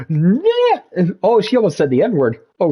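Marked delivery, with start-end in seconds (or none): 0.1-0.8 calling out. Shown as a demonstration. Calls louder to trigger camera.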